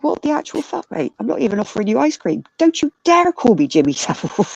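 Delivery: indignant retort. Retold or imitated. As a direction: act out an offended telling-off. Retells own indignant outburst at man.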